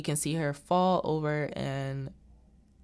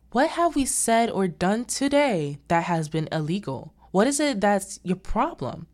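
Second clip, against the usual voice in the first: sharp, loud indignant retort; snapping; 4 semitones higher, 5 dB louder than usual. Retold or imitated. Missus Reef snapping at Margaret in the meeting, angry and loud. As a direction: bite back hard and loud. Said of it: "Missus Reef snaps".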